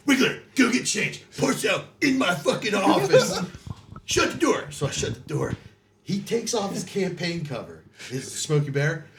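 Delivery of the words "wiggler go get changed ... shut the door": high orders broken up with laughter; laughing through a quote. Retold or imitated. Retelling the drill instructor's orders, laughing and higher. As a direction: quote the barked orders while cracking up.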